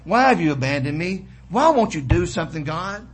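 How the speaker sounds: building, mildly desperate pleading; crying out to God. Retold or imitated. Preacher paraphrases David's honest prayer, crying out. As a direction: press each question harder as the psalmist's plea. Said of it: "He's crying out to God".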